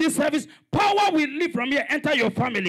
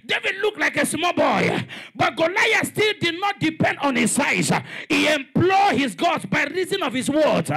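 preaching at full force. Real, not acted. Pastor rousing the congregation, fervent preaching. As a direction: preach it to the back row.

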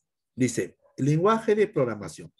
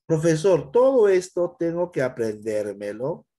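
worried student; 3 semitones higher, 4 dB louder than usual. Retold or imitated. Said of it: "student asking profesor".

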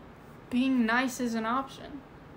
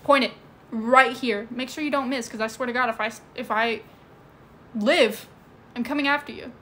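defiant threat; 5 dB louder than usual. Pretend. Defiant threat to gun carrier.

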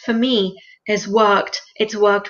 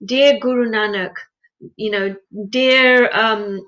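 devotional prayer. Shown as a demonstration. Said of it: "So we say".

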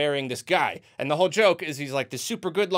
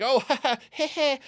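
mock awkward laugh; 7 semitones higher than usual. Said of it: "James Marsden's like".

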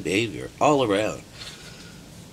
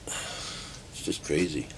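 slow whispered aside, softer; breathy whisper; 4 semitones lower, 8 dB quieter, much slower than usual. Real, not acted. Shaking head at the crowd, a slow whisper. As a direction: let it out on a whisper, slowly. Exasperated aside after quote.

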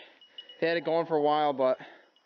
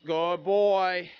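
long drawn-out, hearty praise; praising the dog; 4 semitones higher, 4 dB louder, much slower than usual. Real, not acted. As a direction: stretch the words out proudly for your dog.

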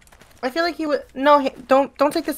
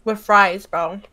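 chewing while talking; mouth full. Real, not acted. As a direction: talk through a mouthful of wings. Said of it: "If you hear me chewing".

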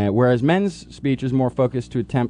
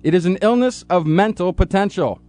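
solemn, grand announcer read; dramatic intro read. Acted.

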